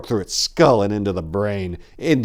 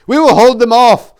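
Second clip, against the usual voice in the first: loud urgent yell; yelled order to a comrade; 15 dB louder than usual. A narrator's reading. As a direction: bark the order across the fight. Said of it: "yelled Salinas".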